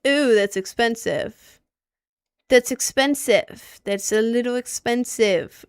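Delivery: slow, loud, drawn-out shock at the price; surprised ooh. Real, not acted. Streamer to chat, shocked at a flight price. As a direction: let the price hit you, stretching it out.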